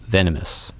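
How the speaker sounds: venomous set apart after a long pause, each syllable given weight; stress on venomous. Shown as a demonstration. Wildlife expert stressing a key word to the host, emphatic. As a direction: lean on venomous so it lands. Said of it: "I'm emphasizing the word".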